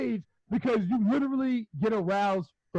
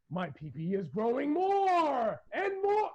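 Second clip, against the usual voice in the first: son's voice; 5 semitones higher, slower than usual. Retold or imitated. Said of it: "he be like".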